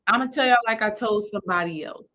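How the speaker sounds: ordinary talk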